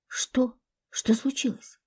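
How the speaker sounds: soft, anxious asking; quietly alarmed question; hushed worried voice. A narrator's reading. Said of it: "забеспокоилась Любаша".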